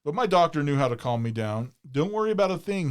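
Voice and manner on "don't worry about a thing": reassuring. Retold or imitated. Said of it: "he assured me".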